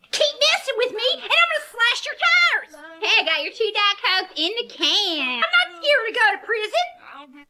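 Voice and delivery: high, sweetly unhinged threat; menacing threat. Acted. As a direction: threaten with a smile in your voice. Waitress threatens, voice higher.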